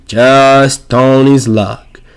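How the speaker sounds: Just Tony's luck drawn out very slowly; a very slow, dry Just Tony's luck; slow wry delivery. Shown as a demonstration. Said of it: "repeats the line".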